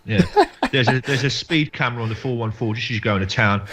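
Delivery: a lightly played Essex geezer giving directions; hammed-up Essex accent. Guest giving directions home in a light Essex accent. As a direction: lay the Essex on a bit thick, with a laugh. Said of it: "That's a great accent".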